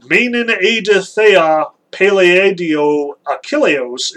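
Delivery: measured epic recital; slow Greek recitation. Shown as a demonstration. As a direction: read the Greek line slowly and deliberately. Reciting the Greek first line.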